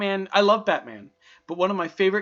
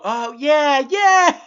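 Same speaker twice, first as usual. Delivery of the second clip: high, loud "yeah!"; sudden realisation; 8 semitones higher, 9 dB louder, much slower than usual. Real, not acted. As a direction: it clicks all at once. Sudden realisation, much louder.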